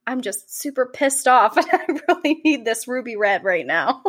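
talking between gulps of wine; words between sips; gulping a drink. Real, not acted. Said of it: "if you hear me gulping".

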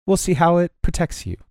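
put-on lightly accented, formal training instructor; measured, in-character appraisal of a pupil; stern instructor with an accent. Instructor inspects a pupil's leather armor, lightly accented formality. Game master voices the instructor.

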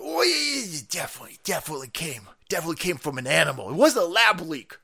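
lightly voiced smug official; mock Fauci. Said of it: "He said".

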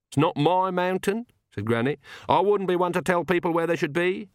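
put-on crotchety old woman brushing him off; tart old witch. A narrator's reading. Granny voiced by narrator.

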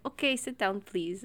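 mimicked masseuse. Customer mimicking masseuse seating her, lightly put-on voice.

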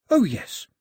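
high, keen agreement; bursting out. A narrator's reading. Daphne seizing on her idea, bursting out. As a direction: jump on the idea, pitched high. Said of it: "Daphne burst out".

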